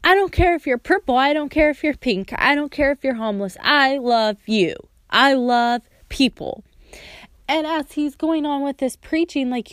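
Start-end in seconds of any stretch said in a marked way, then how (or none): 0.0-3.6 insistent list starting high, stepping down; quick, emphatic preaching, lightly imitated; imitated preacher's fervor. Voicing preacher's emphatic declaration. 3.6-6.6 slower, emphatic imitated preacher; heartfelt declaration. Voicing preacher's declaration of love.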